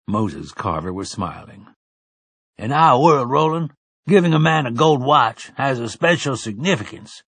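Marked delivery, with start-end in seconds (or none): 2.6-7.2 high, loud elder's urging; an old man, moved, urging gently. A narrator's reading.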